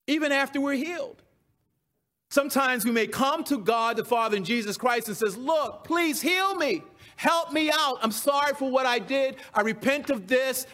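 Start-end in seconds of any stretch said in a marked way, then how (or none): 5.4-10.6 higher-pitched imitated plea for healing; acted-out repentant appeal, pitched up; pleading. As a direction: plead like a penitent asking for help. Acting out a sinner's plea to God.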